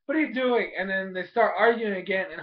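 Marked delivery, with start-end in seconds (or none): 0.0-0.7 irritated shout. Retold or imitated. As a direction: yell at him to get off. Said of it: "He's like".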